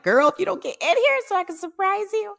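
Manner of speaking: high, loud impatient outburst; antsy retelling. Retold or imitated. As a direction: squeal it urgently at a dawdler. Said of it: "I'm getting antsy".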